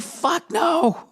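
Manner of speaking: shouted fuck no. Real, not acted. Comic punchline outburst.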